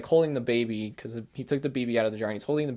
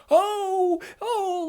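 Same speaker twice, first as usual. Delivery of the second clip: high, loud stunned "oh"; stunned by a plot twist; shocked gasp; 5 dB louder than usual. Retold or imitated. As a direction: caught completely off guard.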